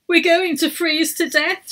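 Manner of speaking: high, shivering fear. A narrator's reading. Emma caught in the snowstorm, shivering. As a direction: shiver through the words. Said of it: "shivered Emma".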